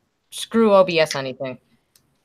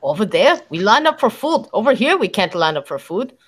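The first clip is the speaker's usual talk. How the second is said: put-on joking Russian accent with swooping pitch. Streamer joking about lining up for food, mock Russian accent. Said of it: "that's actually not a bad Russian accent".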